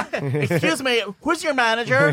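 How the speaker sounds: high-pitched mock complainer; hammed-up entitlement; entitled Karen. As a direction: demand it like an indignant customer. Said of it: "Oh, Karen".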